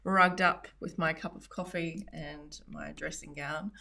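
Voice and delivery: groggy morning voice, just out of bed; just woke up. Real, not acted. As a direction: talk like you only just woke up. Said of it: "I only pretty much just woke up".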